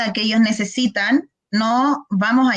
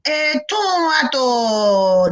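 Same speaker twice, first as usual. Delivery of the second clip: put-on child fumbling; 3 semitones higher, slower than usual. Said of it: "el niño dijo".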